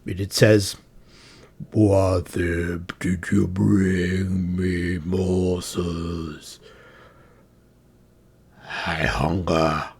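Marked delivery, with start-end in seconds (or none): 1.7-9.9 deep, slow, menacing monster. Acted. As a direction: growl it low like a hungry beast. Mimic chest speaks.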